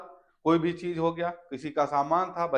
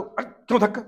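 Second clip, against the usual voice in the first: high, loud, why-should-I outrage; indignant surprise; 9 semitones higher, 9 dB louder than usual. Acted. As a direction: toss it back in disbelief. Acted refusal to push.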